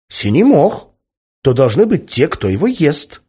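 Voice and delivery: high-voiced child explaining eagerly; little girl. A narrator's reading. Little daughter explains from the back seat, eager child voice.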